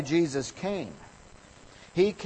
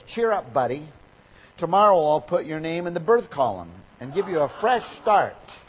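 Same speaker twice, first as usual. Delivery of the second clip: a hint of a breezy, cheeky editor, louder; 4 semitones higher, 5 dB louder than usual. Editor brushing off the angry man, mock cheerful. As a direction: toss off the punchline lightly.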